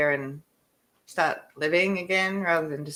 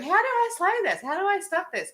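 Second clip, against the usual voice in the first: retold panic; 11 semitones higher than usual. Retold panic, car won't stop.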